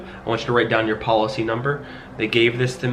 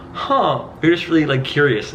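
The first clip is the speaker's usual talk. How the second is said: higher, teasing, curious lilt; playful curious tone; 4 semitones higher, 3 dB louder than usual. Retold or imitated. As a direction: draw them in playfully. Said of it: "I said".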